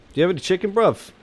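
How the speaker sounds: high mock British bruv voice passed off as Parisian; joke "Parisian" accent. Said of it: "You know, typical Parisian accent".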